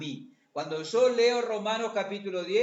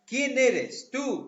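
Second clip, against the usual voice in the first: emphatic challenge; 5 semitones higher, 4 dB louder, much slower than usual. Acted. Preacher confronting the congregation.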